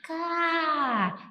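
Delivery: high, slow amazed cry; excited exclaim. Acted. Teacher acting amazed at a purchase, excited. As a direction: gasp it out in delight.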